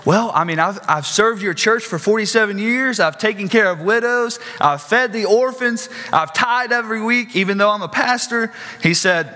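a hint of a boastful pastor pleading his record; self-justifying pastor. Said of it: "And this man says".

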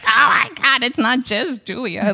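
slow, laughing emphasis on the name; starstruck. Retold or imitated. Correcting her friend about a famous photographer, starstruck. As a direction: savor the famous name in awe.

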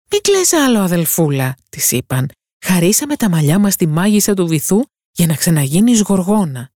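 high, urgent voices comforting then urging; pleading sisters. Acted. Sisters tell the mermaid to kill the prince, urgent. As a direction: sisters calling from the sea, desperate.

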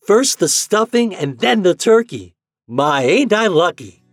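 high, loud, gleeful exclamation; delighted boy. A narrator's reading. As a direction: rejoice like a lucky small boy. Delighted boy rejoices at food.

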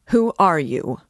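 loud, pompous challenge; a porter puffing himself up, shouting; impressive shout. Acted. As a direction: bark it out to sound official. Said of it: "he shouted as impressively as he could".

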